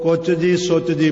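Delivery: ਕੁਚ ਜੀ ਸੁਚ ਜੀ, each broken into two words; split mispronunciation. Retold or imitated. Preacher imitating untrained readers, ਕੁਚ ਜੀ ਸੁਚ ਜੀ split apart. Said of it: "ਕਈਆਂ ਅਣਜਾਣ ਪਾਠੀਆਂ".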